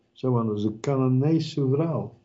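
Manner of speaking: usual speaking voice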